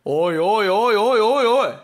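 exasperated outburst. Real, not acted. On a dawn walk, seeing kids gang up on a turtle, loud exasperation. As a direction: throw your hands up out loud in dismay.

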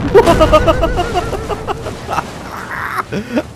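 long, high cackling laugh; uproarious laughter. Real, not acted. Player's last stunt goes off, uproarious high laughter.

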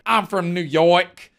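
slow, exaggerated New York imitation; slow parody of a New Yorker's accent; mock New York accent. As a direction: mimic a badly faked New York accent, drawn out. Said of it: "no way that this is a real accent".

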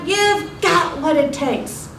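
slow, high, drawn-out call returning; ringing echo. Acted. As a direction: mimic a far-off echo, stretching the words. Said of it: "the voice rang back".

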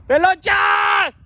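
long falling call, slow and loud; drawn-out shout. Real, not acted. Calling a friend from the street, long falling shout. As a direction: call up to the roof, stretching the name.

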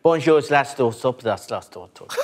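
nonsense French, fading away at the end; mock French. Recruit asked to repeat his French, fading fake French. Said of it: "Say exactly what you just said again".

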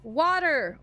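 "Water" stretched on the first syllable; practising the pronunciation. Shown as a demonstration. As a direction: try out "Water" slowly, testing the vowel. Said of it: "why I keep saying it like that".

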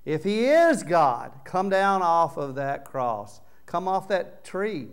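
slow, loud jeering challenge; mocking taunt. Mocker shouting up at Jesus on the cross, jeering. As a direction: taunt him from below the cross.

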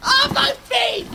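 slow yelp at the icy cold; pained shout. Real, not acted. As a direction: cry out as the cold bites. Bare feet on frozen trampoline.

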